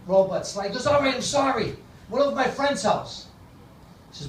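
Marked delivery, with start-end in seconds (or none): 0.9-3.3 higher-pitched mock apology from a kid; a hint of a boy owning up; lightly voiced son. Son owns up after robot slap, lightly voiced.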